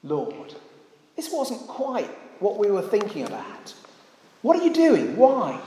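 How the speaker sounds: acted-out complaint climbing in pitch; mock querulous protest; grumbling. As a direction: question God like a disgruntled follower, ending high. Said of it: "They'd started to grumble, to murmur".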